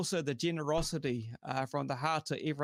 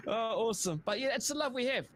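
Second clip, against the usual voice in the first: laughing; 8 semitones higher than usual. Real, not acted. Coming out of the laugh.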